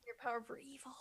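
hushed sinister whisper; spooky whisper. Pretend. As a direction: whisper it like a villain's secret. Teasing about evil power.

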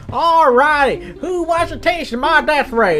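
high, slowing villain taunt. Acted. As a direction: announce yourself as a cartoon baddie. Second villain makes his entrance.

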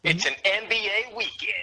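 big booming arena announcer. Pretend. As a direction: hype it like a fighting game announcer. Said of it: "the speaker putting on his, his announcer voice".

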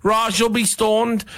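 high-pitched, exasperated rundown; exasperated rant. Real, not acted. Mocking rant about the panel.

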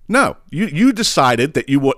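high-pitched, emphatic retort; indignant rebuke. Pretend. Imagined rebuke to the customer.

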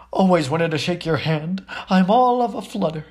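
all in a flutter; flustered. Acted. Admirer flustered.

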